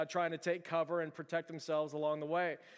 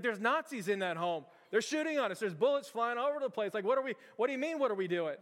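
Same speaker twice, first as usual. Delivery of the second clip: acted captain, higher and exasperated; incredulous protest; 4 semitones higher than usual. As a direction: protest as if bullets are flying overhead. Acted captain protests being under fire.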